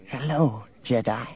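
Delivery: soft, hushed greeting; whispered greeting. A narrator's reading. Thin little woman greets the Jedi, whispering. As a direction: whisper it softly to him. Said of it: "brightened and whispered".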